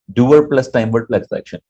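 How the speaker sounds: "Doer plus time word plus action" spaced out slowly, word by word; slow teacher recital; slow formula recital. Shown as a demonstration. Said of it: "तो कैसे बोलते हैं?".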